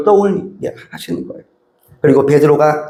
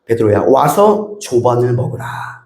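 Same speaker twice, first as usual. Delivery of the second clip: lower, slow and theatrical; stagey; 6 semitones lower, slower than usual. Shown as a demonstration. Pastor mocking a stagy reading of Jesus, theatrical. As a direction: read it like a stiff play. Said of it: "마치 연극하듯이 그렇게 말씀하시는 것이 아니에요".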